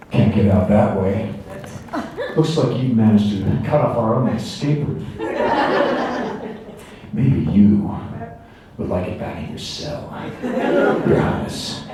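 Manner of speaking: slow, drawn-out line reading with long pauses; powolna, rozwlekła wersja. Shown as a demonstration. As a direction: deliver it slow and subtle, modern film pacing. Slow take of film lines.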